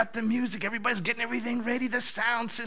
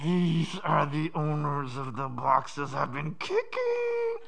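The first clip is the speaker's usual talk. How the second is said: stunned realisation; 7 semitones lower, 5 dB quieter, much slower than usual. Retold or imitated. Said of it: "I'm sitting there saying".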